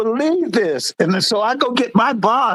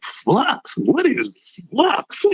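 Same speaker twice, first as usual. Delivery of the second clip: baffled disbelief; 3 semitones higher, much slower than usual. Retold or imitated. Retold bafflement at diagnosis.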